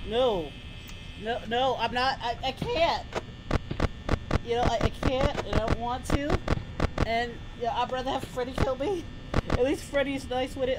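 low, quiet giving up; softly refuse, too scared to go on; resigned dread. Pretend. Giving up in fear.

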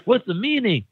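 mock-frustrated pestering; frustrated pleading. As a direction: press him harder with each question, half laughing. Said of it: "feeling real frustrated and being like".

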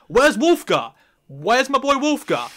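loud, high plaintive demand; mock outraged call. Fan demanding a favorite character left out of the set, mock outrage. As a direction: call out for a missing pal, half-joking.

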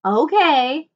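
mild groan of giving in, a little high and loud; reluctantly going along. A narrator's reading. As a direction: give in with a groaned okay. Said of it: "Jack groaned".

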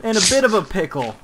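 prim white-guy voice. Pretend. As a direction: sound like a polite suburban guy. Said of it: "I got a white boy voice".

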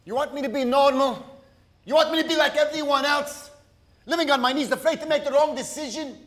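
heated family shouting. Acted. Husband defends himself heatedly.

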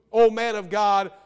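a hint of sneering deference on "O man of God"; condescending tone. Preacher mocking the captain's condescending address to Elijah. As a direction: say "O man of God" with mock, looking-down politeness. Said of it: "in a condescending tone".

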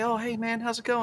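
high, soft New Zealand lilt; Kiwi security guy. Retold or imitated. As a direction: imitate a gentle, high-voiced Kiwi guard. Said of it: "he always talks like this".

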